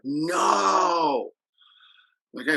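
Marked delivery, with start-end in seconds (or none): 0.0-1.3 mock kids' chorus. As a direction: shout it back like fifth graders in unison. Fifth graders answering in chorus.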